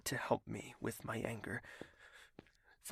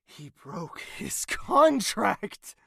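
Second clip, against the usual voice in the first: angry shout; 6 semitones higher, 9 dB louder, much slower than usual. Acted. Heated argument continues.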